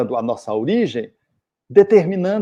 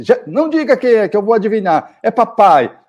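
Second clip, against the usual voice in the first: put-on high, excited boy's voice; a son who already knows who is knocking, teasing; eager child guessing; 8 semitones higher, 5 dB louder than usual. Son guessing father at door.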